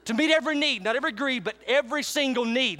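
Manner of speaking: "every" and "need" punched each time; stress on every need. Shown as a demonstration. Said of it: "Emphasis on need".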